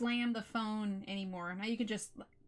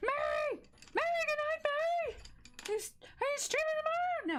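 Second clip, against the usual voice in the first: shouting with very high-pitched voice. Calling out to someone in Florida about tomorrow: yelling. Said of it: "I don't need to be yelling".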